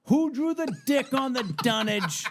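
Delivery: high, slow holler; retold yell. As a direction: bellow it out, stretching each key word. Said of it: "he yelled it out".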